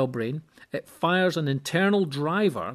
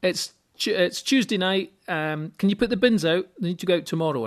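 nagging wife's request; 5 semitones higher, 4 dB louder than usual. Retold or imitated. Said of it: "And it's usually".

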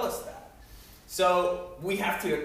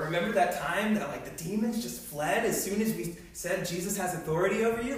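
mildly excited, lifted retelling; a touch of campfire-story excitement; retold excited buzz; 4 semitones higher than usual. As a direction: imitate someone buzzing over a shared memory.

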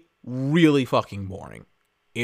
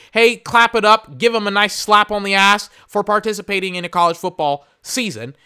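sarcastic mock cheer; 5 semitones higher, 4 dB louder than usual. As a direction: cheer him on with heavy sarcasm.

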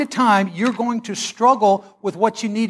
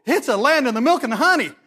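excited spies; 5 semitones higher than usual. Retold or imitated. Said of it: "they were excited about it".

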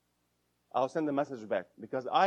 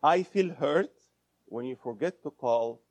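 hurt I-statement. Shown as a demonstration. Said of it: "What I'm saying here?".

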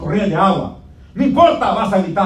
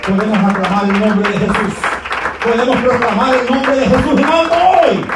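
full-force preaching; 2 semitones higher than usual. Acted. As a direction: drive the sermon home with fire. Preacher calls congregation to praise.

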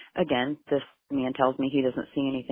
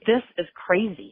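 raised, slow and heated; angry outburst; 5 semitones higher, 5 dB louder than usual. Retold or imitated. Mother furious at investigators, raised angry voice. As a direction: let the anger break through, louder.

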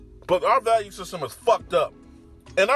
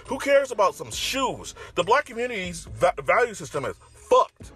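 exasperated; 4 semitones higher than usual. Real, not acted. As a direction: scoff at it in disbelief. Dismissive rant.

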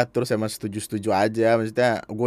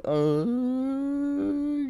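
long, high, soft gush; delighted mother; 5 dB quieter than usual. Retold or imitated. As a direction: imitate a mother melting with delight. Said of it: "langsung kembang gitu mukanya, kayak". (menirukan mama girang, nada tinggi panjang)

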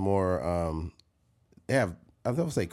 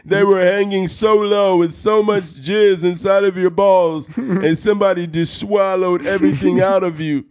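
mock preacher; 8 semitones higher, 8 dB louder than usual. Crude pastor parody for the co-host, loud hammed-up sermon. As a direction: preach the crude line like a televangelist.

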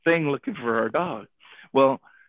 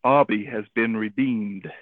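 slow, lower imitation of a public announcement; loudspeaker announcement; 4 semitones lower, slower than usual. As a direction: announce it slowly, like the shelter lady on loudspeaker. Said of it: "over the loudspeaker, the lady goes".

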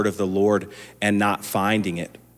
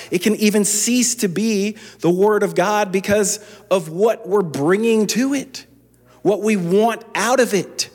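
preaching at full force; 11 semitones higher than usual. Acted. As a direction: drive the warning home from the pulpit.

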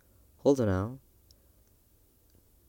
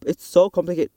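exasperated whine; 8 semitones higher, 9 dB louder than usual. Real, not acted. Complaining about the app again.

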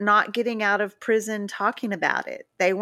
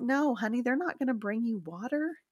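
patient letdown; 7 dB quieter than usual. Retold or imitated. Inmates patiently dismissing her panic.

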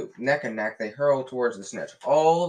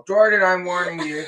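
stern warning; 8 semitones higher, 9 dB louder than usual. A narrator's reading. McGonagall warning the commentator.

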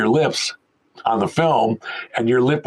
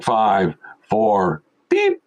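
mock countdown and chirpy host; a jaunty hint of a TV host greeting; retold playback; 3 semitones higher than usual. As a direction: mimic the tape starting up.

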